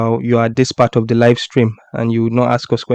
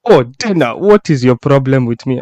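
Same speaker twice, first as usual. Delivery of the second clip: badly faked French accent; attempted French accent. Podcast host imitating a fighter's reply to Dana, attempted French accent. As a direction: have a half-hearted go at a French accent. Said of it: "I almost wanna say this with his French accent".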